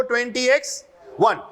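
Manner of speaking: "Twenty एक्स one" said as English twenty, X, one; year read-out. Shown as a demonstration. Teacher answering how to say the year, "ट्वेंटी एक्स one" in English. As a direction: model the reading "ट्वेंटी एक्स one", all in English. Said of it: "बोलेंगे क्या इसको?".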